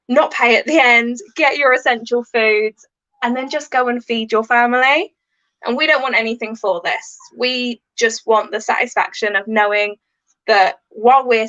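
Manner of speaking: upbeat shop advert voice; advert read. Acted. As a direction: pitch it like a local radio ad. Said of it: "do it as an advert for me".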